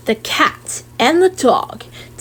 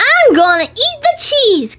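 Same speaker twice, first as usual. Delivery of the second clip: called out; 11 semitones higher than usual. Acted. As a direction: call it out eagerly like a kid. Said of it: "called the child".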